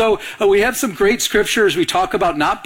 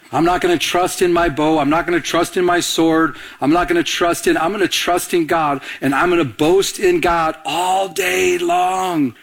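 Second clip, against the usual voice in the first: emphatic preaching. Acted. Preaching declaration.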